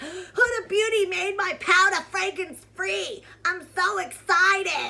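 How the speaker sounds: mocking, high, loud excited gush through laughter.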